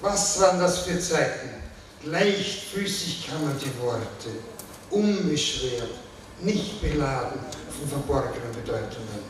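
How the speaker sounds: measured recital, openings lifted, line ends sinking; poetry reading. Acted. Poet reading own poem on language and doubt, reflective recital. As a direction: recite it reflectively, pausing between phrases.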